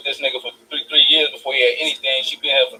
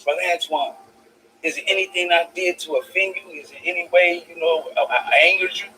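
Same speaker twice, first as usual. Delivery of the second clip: pastor's meek voice; 4 semitones higher than usual. Retold or imitated. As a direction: play the worried pastor asking if he offended. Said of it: "He said".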